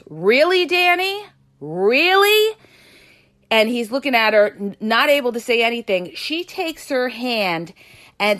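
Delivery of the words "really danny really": high, loud outraged "really"; angry confrontation. Retold or imitated. Girlfriend confronting her boyfriend, outraged and loud. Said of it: "she turns to him and she goes".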